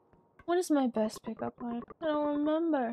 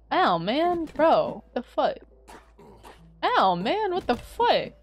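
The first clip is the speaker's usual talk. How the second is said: sharp pained outburst, higher and louder; loud frustrated yelp; 4 semitones higher, 5 dB louder, slower than usual. Real, not acted. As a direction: yelp it out after getting hit in the game. Getting hit in the game.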